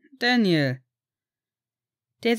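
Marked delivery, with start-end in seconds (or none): 0.1-0.8 louder, firmer calling of a name; insistent call. A narrator's reading. Sirius rouses Daniel from a daydream, calling insistently.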